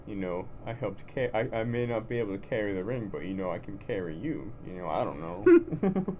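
Rocky Balboa accent. Shown as a demonstration. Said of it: "I'm just gonna start talking like this".

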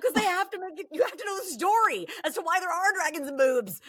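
high, laughing explanation; giggling while defending long stories; laughing retort. Retold or imitated. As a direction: laugh through the comeback to the husband. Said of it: "I'm like".

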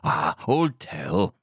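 slow drawn-out broadcaster impression; Wogan. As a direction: stretch it out in a showy impersonation. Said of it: "What a, what an impression".

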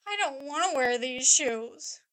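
lightly imitated whining kid, drawn out; whiny child. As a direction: imitate a balky little girl. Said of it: "she was just whiny and crying".

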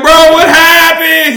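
slow, high question broken by laughter; laughing disbelief. Retold or imitated. Friends greet the man who got lost, laughing. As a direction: laugh it out at your lost buddy.

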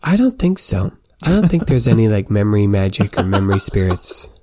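high, musing voice with a laugh at the end; thoughtful scholar. Acted. Sympathy pondering memory magic to the squire, high and musing. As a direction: muse aloud, then a sly joke. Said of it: "pauses and thinks".

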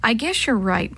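ordinary delivery, nothing marked

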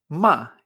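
MA en cuarto tono, caída fuerte. Shown as a demonstration. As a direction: deja caer MA de agudo a grave. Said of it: "había cuatro tonos y un tono neutro". («ma» en tono descendente y firme)

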